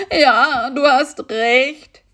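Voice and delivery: high, slow yowl of pain; howling. A narrator's reading. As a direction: howl the words out. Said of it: "jaulte Karl-Heinz".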